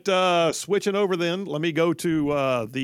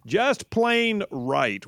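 imitating the promo voice; 3 semitones higher, slower than usual. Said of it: "like that dude just said".

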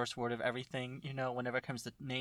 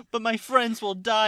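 dramatic hero; 7 semitones higher, 7 dB louder than usual. Pretend. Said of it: "Mo's character's like".

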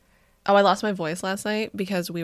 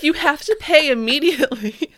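mock demand; 5 semitones higher, 3 dB louder than usual. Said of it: "They're like".

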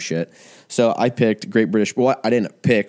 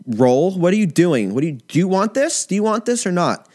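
mock armchair judge rant; 5 semitones higher than usual. You're like.

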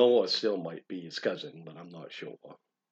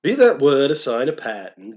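mild shriek; 3 semitones higher, 7 dB louder than usual. Acted. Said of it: "I shrieked up".

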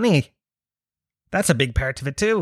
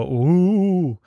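drawn-out, higher mock-crowd "ooh"; crowd's scandalised ooh; 5 semitones higher than usual. Comedian mimicking a crowd's reaction to a touchy shout-out, drawn-out ooh. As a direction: imitate an audience going ooh, long and raised. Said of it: "everyone go".

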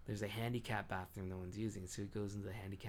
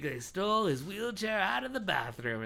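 laughing; 9 semitones higher, 8 dB louder than usual. Retold or imitated. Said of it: "they're just like".

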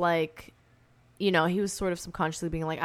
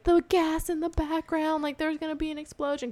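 alarmed warning; 9 semitones higher, 3 dB quieter than usual. Retold or imitated. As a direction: sound the alarm about the gas. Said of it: "Sarah was like".

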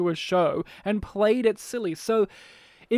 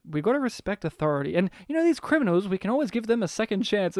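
imitating Adam West; faster than usual. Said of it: "Adam West, you know, being like".

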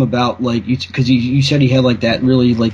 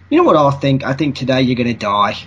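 upbeat British attempt drifting toward Australian; cheerful death threat in a wobbly British-Australian accent; Australian-sounding British accent. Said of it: "that sounded more Australian".

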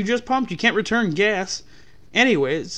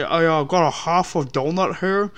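imitating a customer talking through a mouthful; mock mouthful; 4 dB louder than usual. Mocking a customer who talks while eating, mouth full. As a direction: mimic chewing while you talk. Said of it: "with a mouthful of food and trying to say".

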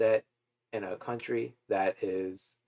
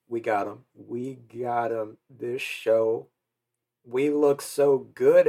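excited; 5 dB louder than usual. Real, not acted. Celebrating representation, joyful exclaiming.

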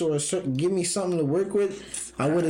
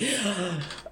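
sharp gasp; 4 semitones higher, 4 dB quieter than usual. Shown as a demonstration. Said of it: "Give me your best grandma impersonation".

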